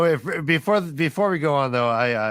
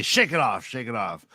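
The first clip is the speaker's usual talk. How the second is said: brusque; 2 semitones lower than usual. Acted. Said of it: "and then I brusquely".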